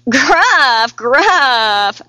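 chomping middle goat. Acted. Middle goat chomping greens, saying gruff. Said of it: "chomped the middle billy goat".

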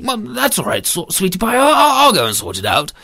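stammering, hesitant comfort; bumbling reassuring husband. Acted. Storyteller voices the husband.

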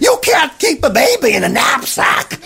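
teacher shouts in shock at Benjamin. A narrator's reading. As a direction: blurt it out in alarm. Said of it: "the teacher said".

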